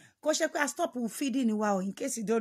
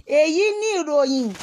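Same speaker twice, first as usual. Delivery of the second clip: loud announcement; 5 semitones higher, 10 dB louder than usual. Real, not acted. Announcing the news.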